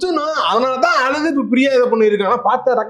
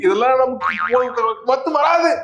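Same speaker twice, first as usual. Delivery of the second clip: slow dramatic line; much slower than usual. Acted.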